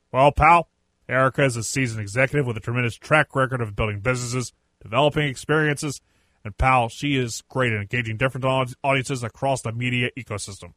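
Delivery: impersonation of a wrestling boss, punchy opening; Vince McMahon. Acted. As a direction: put on a boss's voice to read out a statement. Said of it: "do my best Vince McMahon impersonation".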